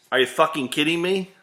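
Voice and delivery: exasperated outburst. Acted. Exasperated rant end.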